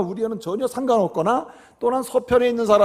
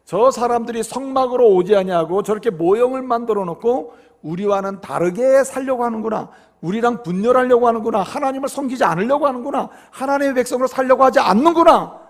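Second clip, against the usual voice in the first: retold grievance, rising to a raised voice; mildly angry accusation. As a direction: imitate an offended group accusing. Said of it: "이들이 화가 났습니다".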